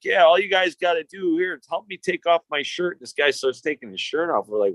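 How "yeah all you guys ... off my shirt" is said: high, lightly voiced creepy man; creepy stranger voice. A man luring boys at the pond, sleazy coaxing. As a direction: coax the kids like a sleazy stranger.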